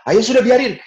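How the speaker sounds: high, loud brush-off; blustering father. Retold or imitated. Father covers his mistake in front of mother. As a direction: wave it off loudly to save face.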